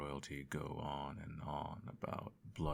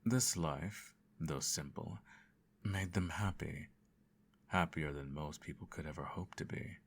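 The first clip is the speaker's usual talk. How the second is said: bedtime story narration. Acted. Parent telling the child a bedtime story, gentle narration. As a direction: read it like a lulling fairy tale.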